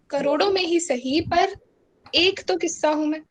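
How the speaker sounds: measured, lilting Hindi verse delivery; spoken-word poem with pauses between phrases; patriotic poem recitation. Acted. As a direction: recite it as an address to the homeland.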